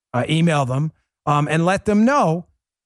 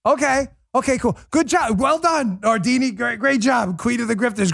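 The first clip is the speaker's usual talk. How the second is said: sarcastic praise; 4 semitones higher than usual. Acted. Sarcastic reply to Nardini's boast.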